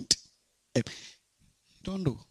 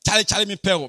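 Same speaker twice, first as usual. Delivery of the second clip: imitating street guys; faster than usual. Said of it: "that's how they say it".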